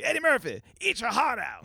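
high, hammed-up taunt imitating a singer. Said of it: "the singer was like".

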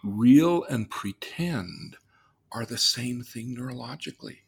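"Real" and "pretend" drawn out slowly, each stressed; slow emphatic statement. Shown as a demonstration. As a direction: lay it down word by word. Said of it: "let's say it again".

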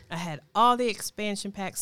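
talking around candy; words round a chewed Starburst; mouth full. Real, not acted. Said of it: "I got another Starburst in my mouth".

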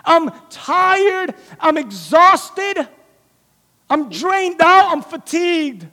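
slow, tired complaint; weary lament. Acted. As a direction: sound drained and worn out. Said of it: "Peter's like".

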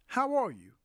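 "How are you?" said high and clear as a model; teacher says "How are you?" for learners to copy; model phrase. Shown as a demonstration. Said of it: "in English".

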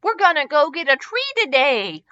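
lifted and giddy, no real giggle; gleeful giggle. Acted. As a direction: announce it like a gleeful kid. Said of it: "Leo giggled".

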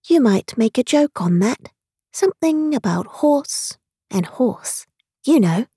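lightly voiced tiny creature; a hint of a small voice close to the ear; extremely small voice. A narrator's reading. Gnat suggesting a joke to Alice, in small voice. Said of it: "an extremely small voice close to her ear said".

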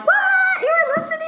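high, loud shocked disbelief; mock surprise. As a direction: act stunned that anyone listens. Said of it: "And I'm like".

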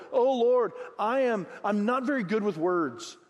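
pleading Moses. Retold or imitated. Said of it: "But Moses pleaded with the Lord".

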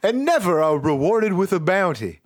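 high, slow rustic farmer voice; Vermont accent. Acted. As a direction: lament like an old Vermont farmer. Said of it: "how people talk in Vermont".

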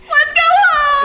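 put-on a scared child's near-crying plea; pleading, voice tight with fear; frightened plea. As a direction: beg to go home, on the edge of tears. Scared girl begs to leave.

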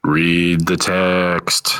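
slow eerie ghostly voice; spooky drawn-out ghost moan. Pretend. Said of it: "I made that sound like a ghost".

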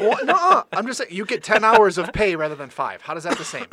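laughing while arguing. Real, not acted.

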